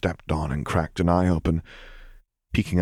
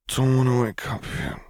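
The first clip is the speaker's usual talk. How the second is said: put-on higher, drowsy child's protest; sleepy child mumble; 7 semitones higher than usual. A narrator's reading. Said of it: "he mumbled out".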